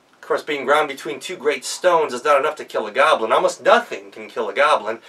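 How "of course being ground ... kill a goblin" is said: ordinary delivery, nothing marked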